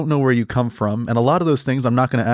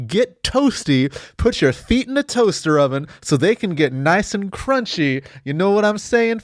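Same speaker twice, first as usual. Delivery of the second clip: high, racing, over-the-top hype man; manic host; 5 semitones higher than usual. Acted. Host hypes up his show to listeners, manic. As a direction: sell the comedy like an infomercial.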